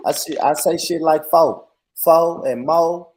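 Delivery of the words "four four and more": "fo" and "mo" ending on the vowel with no r; country pronunciation. Shown as a demonstration. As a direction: say "fo" and "mo" country-style, r dropped. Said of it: "I'm country, man. I say shit".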